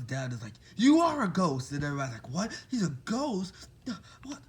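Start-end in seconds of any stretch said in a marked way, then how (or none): 0.8-1.7 loud, high cry of discovery; shocked exclamation. Retold or imitated. Ida realizing Deku's secret, loud shocked cry. 2.3-4.4 disbelieving classmates. Retold or imitated.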